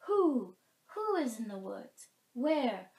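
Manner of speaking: high, loud alarmed forest call; animal calling out. Acted. A forest creature asking who is in the woods, loud and high.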